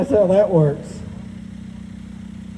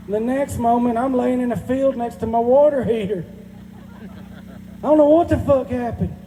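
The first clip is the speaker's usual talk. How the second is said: higher, dazed country tornado survivor; tornado interviewee; 4 semitones higher than usual. Retold or imitated. Country man interviewed after a tornado, talking dazed and higher. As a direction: tell it like you're on the local news after a twister. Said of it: "Like I'm getting interviewed right after a tornado".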